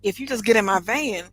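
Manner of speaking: stretched-out key words in an eager retold offer; enthusiastic pitch. Salon owner retells recruiting London stylists, enthusiastic pitch. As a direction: sell it keenly, leaning on the big words. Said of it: "I mean, I was enthusiastic".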